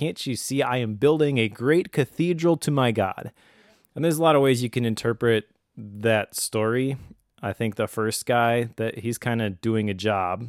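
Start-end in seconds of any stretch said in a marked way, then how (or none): 0.0-3.3 put-on fired-up, proud, eager, excited tone. Telling a story, the speaker acts out the third guy's answer: acting out an excited reply. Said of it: "And that guy's all excited".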